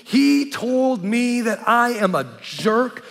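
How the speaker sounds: high, loud whining complaint; whiny friend. Retold or imitated. Pastor imitating his whining friend, high and loud. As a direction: whine like a wounded big guy. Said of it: "And he goes".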